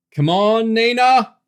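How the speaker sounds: loud, high cheer at a video game; high shout with the last word held; excited scream. A narrator's reading. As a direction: scream it, urging your fighter on. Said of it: "James screamed".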